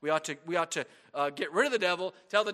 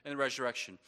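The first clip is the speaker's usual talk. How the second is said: inner thought; 8 semitones lower, 8 dB quieter than usual. Retold or imitated. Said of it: "I thought to myself".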